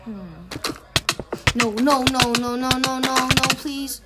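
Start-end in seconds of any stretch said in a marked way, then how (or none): 1.5-4.0 anguished denial. Real, not acted. Being attacked again.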